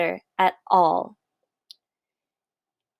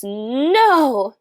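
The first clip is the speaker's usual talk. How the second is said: higher, louder protest; shouted no; 5 semitones higher, 4 dB louder than usual. A narrator's reading. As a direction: insist again, outraged. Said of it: "called the most very honored head mouse".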